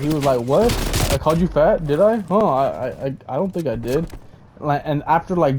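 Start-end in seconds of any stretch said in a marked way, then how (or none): 0.4-4.1 a touch of hammed-up confusion; cowering denial. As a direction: dodge it like a caught kid. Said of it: "like, cowered out".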